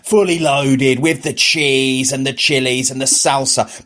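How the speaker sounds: slow, drooling tease; teasing temptation. Retold or imitated. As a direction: savour each slow word. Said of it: "I was teasing myself".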